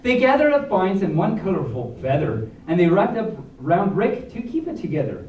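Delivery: lively storybook read with rhyme; reading to children. A narrator's reading. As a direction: read the rhyming story to the kids. Reads picture book aloud.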